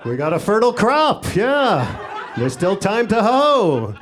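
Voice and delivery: a light hint of an Iowa farmer, proud of the crop; playing it folksy, like a farmer reporting on the harvest. Egg-freezing women mimicked as Iowa farmers, mildly folksy. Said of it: "they kinda sound like farmers in Iowa".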